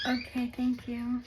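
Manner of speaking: called out off-mic to husband; turning away from phone. Real, not acted. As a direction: turn and call over shoulder. Answering husband in another room.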